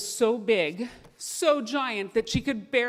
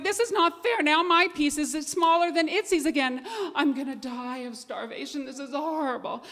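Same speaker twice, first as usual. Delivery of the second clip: high, whiny complaint breaking into laughter; the dog protests to the fox, high and laughing; laughing whine; 6 semitones higher than usual. Acted. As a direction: wail about the injustice while cracking up.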